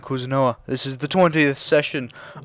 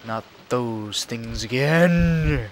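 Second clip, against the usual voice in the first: weary dismay; much slower than usual. Acted. Character dreads returning creatures.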